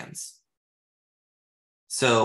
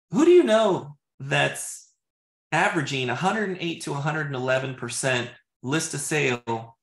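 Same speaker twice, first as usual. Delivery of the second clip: stumbling first try. Shown as a demonstration. Agent trying the question first time, stumbling. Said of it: "I can already hear how I'm stumbling".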